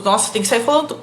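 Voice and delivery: mock panic, words tumbling out fast; imitating a nervous presenter racing through; rushed panicky repeat. Teacher mimics a panicked student who won't pause, rushed. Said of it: "Então não fica com medo".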